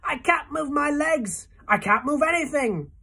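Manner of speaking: desperate moan. A narrator's reading. Centipede laments his stiffening legs, high and anguished. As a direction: despair at being stuck. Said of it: "he moaned".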